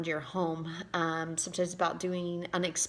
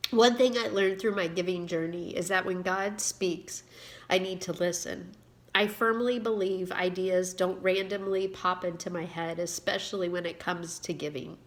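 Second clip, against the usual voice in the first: reading her own book aloud, a touch livelier than her chat; story reading. Acted. Author reading her story to viewers, expressive narration. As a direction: read the story to your viewers with gentle storytelling lift.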